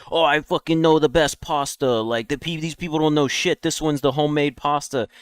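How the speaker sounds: lightly voiced snob chef bragging; mock chef sure he knows the best pasta; mocking Italian chef. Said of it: "an Italian chef who's like".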